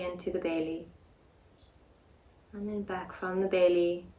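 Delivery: calm, unhurried meditation guidance with long pauses; guided meditation. Real, not acted. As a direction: gently guide them into the breath, leaving space between phrases. Leads a breathing meditation.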